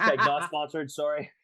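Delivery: laughing echo. Real, not acted.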